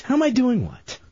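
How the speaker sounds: mocking echo of the host; awful co-worker impression. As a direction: mimic the host's puzzled question. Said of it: "That's Chunks and his awful impression".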